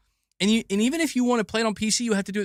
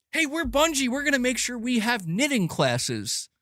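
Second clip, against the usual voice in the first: mock Bungie employee; 5 semitones higher than usual. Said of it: "mocking Bungie staff".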